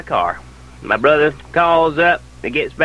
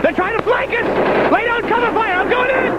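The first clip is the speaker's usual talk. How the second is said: very high-pitched combat yells; frantic acted soldier under fire; battlefield shouting. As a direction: scream orders across a firefight.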